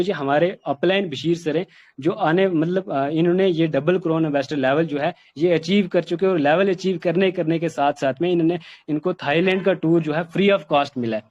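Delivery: confident, animated sales delivery; enthusiastic, confident. Shown as a demonstration. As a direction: lively pitch with ups and downs. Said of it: "इस तरह से आप जोश के साथ, confidence के साथ".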